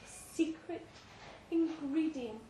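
hushed, breathy secret whisper. Retold or imitated. Mother-in-law whispering the secret in the basement. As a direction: breathe it into his ear. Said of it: "She whispered".

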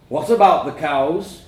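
dad's loud, slow boom. A narrator's reading. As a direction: boom it out like a stern father. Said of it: "he boomed".

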